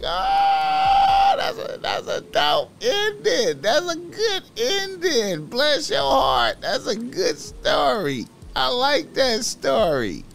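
very high, slow, gushing squeal; mock sweet delight. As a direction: gush high and sugary like a delighted auntie. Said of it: "I was like".

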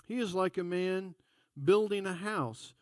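measured, solemn Bible reading; scripture reading. Acted. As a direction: read God's word with reverence. Reads scripture.

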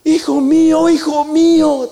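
loud, high, slowing "hijo mío" full of feeling; tender lament. Acted. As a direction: Saul moved, calling David his son. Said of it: "hablando muy, muy bonito".

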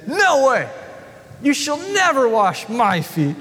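high, laughing protest; Peter protesting. Acted. Peter refusing to let Jesus wash his feet, high protest. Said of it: "And Peter says to him".

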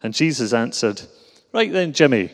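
reading a comic Glasgow Bible in a thick Glaswegian accent; broad Glasgow accent. Shown as a demonstration. Preacher reading the Good Samaritan to the church in a broad Glasgow accent. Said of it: "put on my accent a bit and read a bit of comedy".

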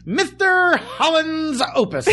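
high, slow booming movie-star voice; Richard Dreyfuss voice. Retold or imitated. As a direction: boom out the title like Dreyfuss. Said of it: "in a Richard Dreyfuss voice".

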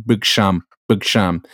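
lightly imitated Dutch accent on "big sham"; Dutch-accented impression. Retelling a player's interview to friends, imitated Dutch accent. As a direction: put on a Dutch footballer's accent. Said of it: "in, like, in his accent".

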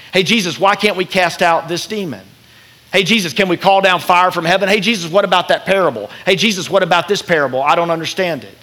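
acted nagging questioner, voice pushed up; pestering disciples. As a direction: pester like an eager pupil who keeps interrupting. Acts out disciples pestering Jesus with questions.

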